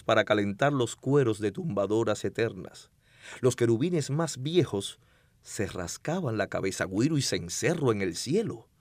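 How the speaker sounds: dramatic poetry recital; hammy stage actor. Shown as a demonstration. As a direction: declaim it like a stage poet. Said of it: "declamando una poesía bellísima".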